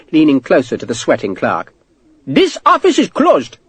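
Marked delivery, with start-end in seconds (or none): 2.2-3.6 shouted. A narrator's reading. Clerk shutting the office on Sharp, shouting. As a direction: cry it out high and drawn out. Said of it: "the clerk shouted".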